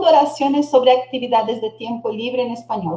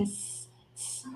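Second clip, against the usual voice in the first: a whispered, hissing s, s; hissed s; 24 dB quieter than usual. Shown as a demonstration. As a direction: hiss the s sound alone. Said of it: "fala como se fosse assim". (s sibilado, sussurrado)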